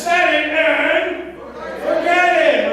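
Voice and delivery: loud, high, drawn-out infomercial catchphrase; Ronco guy. Acted. Speaker to audience recalling the oven ad, pitchman shout. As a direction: belt it out slowly like a TV pitchman. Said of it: "The Ronco guy".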